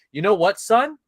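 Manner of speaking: stern father. Acted. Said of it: "a man is gonna hold the ground and say".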